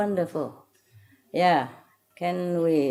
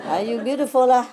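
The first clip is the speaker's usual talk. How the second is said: Singlish; 5 semitones higher, 6 dB louder, faster than usual. Retold or imitated. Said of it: "You always have to say La at the end".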